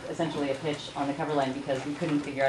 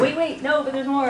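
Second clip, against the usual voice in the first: higher, louder pleading to be heard; urgent insistence; 9 semitones higher, 5 dB louder than usual. Retold or imitated. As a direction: jump in eagerly to win them back. Acting out urgent pitch to listeners.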